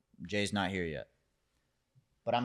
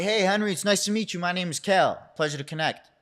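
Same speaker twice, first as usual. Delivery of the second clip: higher, overly polite self-introduction; eager polite greeting; 7 semitones higher than usual. Retold or imitated. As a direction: brightly introduce yourself to the big boss. Greets the boss nervously, eagerly.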